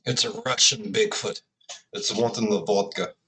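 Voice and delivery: lightly put-on, clumsy Russian accent; amateur Russian impersonation; bad Russian accent. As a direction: do a joking, half-hearted Russian accent. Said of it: "that was a horrible Russian impersonation".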